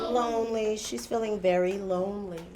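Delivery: low, soft and sympathetic; a touch of sadness, voice dropped; gently sad. Retold or imitated. Teacher tells class of lonely daughter, gently sad.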